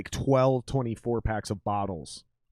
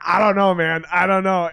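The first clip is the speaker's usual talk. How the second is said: mock innocent; 6 semitones higher, 8 dB louder than usual. Retold quote, feigning innocence to bouncer.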